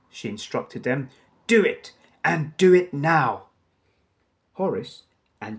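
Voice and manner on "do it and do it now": commanding. Acted. Cruella orders crooks.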